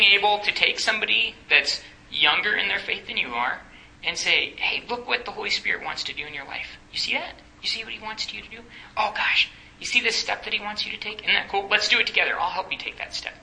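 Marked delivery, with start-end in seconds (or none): 4.6-13.3 soft, lifted coaxing voice; softly inviting, pitched a little higher; gentle encouragement. Acted. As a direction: point it out quietly, like to a beginner. Voices a discipler encouraging someone younger.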